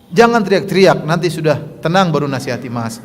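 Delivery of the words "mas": slow soft complaint with a small laugh; gently, slowly. Shown as a demonstration. Wife calmly advises annoying husband, slow and gentle. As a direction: tell him off slowly and gently. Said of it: "Pelan-pelan".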